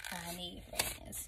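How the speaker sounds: soft, slow, mock-forlorn repeat; quiet slow sulk. Repeating the plea, subdued.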